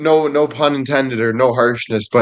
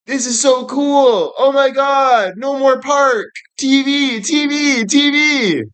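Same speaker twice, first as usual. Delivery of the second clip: put-on very high, giddy child voice; thrilled kid; 12 semitones higher, slower than usual. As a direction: gush like a kid over a new toy.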